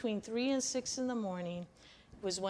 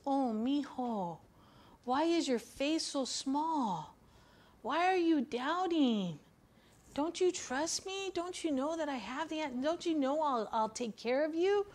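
gentle Jesus; 5 semitones higher than usual. Acted. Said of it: "this is how I see Jesus saying it".

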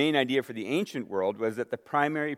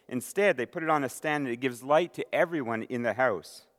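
raised, solemn reading of the passage; scripture reading; 2 semitones higher than usual. Acted. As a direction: read it out to the church with weight. Reading scripture aloud to congregation.

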